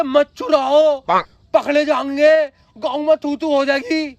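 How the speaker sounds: mock-anxious echo of an accomplice; mocking quote. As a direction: throw their cautious warning back at them. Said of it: "तूने क्या बोला था".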